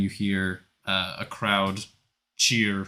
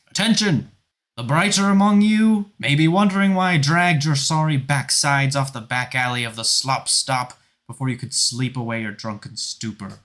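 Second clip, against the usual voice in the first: higher, louder barked announcement to the crowd; loud commander; 5 semitones higher, 6 dB louder than usual. Acted. Felane addresses the runners across town, loud and commanding. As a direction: bellow it across the city like a drill captain. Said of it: "she says".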